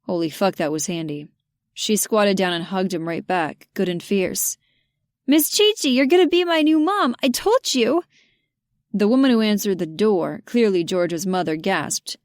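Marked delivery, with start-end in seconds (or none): 5.3-8.0 put-on high, loud child's excited cry; a boy bursting with joy; high, loud eager little boy shouting his news. Andy excitedly greets Georgia.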